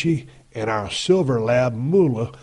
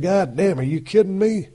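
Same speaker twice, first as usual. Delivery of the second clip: surprised outburst; 7 semitones higher than usual. Retold or imitated. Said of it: "And I said".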